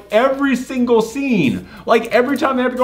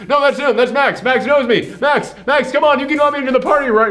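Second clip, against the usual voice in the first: higher, rushed pleading; 6 semitones higher than usual. Retold or imitated. Owner begging the bouncer to let him in, higher and rushed. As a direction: beg to be let in, talking fast. Will Arnett pleading at door.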